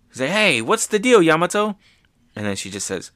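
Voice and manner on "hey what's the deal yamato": surprised Ace. Retold or imitated. Ace voiced, surprised reply.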